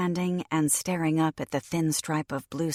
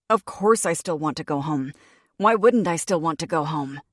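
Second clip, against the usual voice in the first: sharp, louder angry retort; spat out; 6 dB louder than usual. Acted. Lyra snapping back at her friend, angry and loud. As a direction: spit the words back at her. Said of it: "she spat".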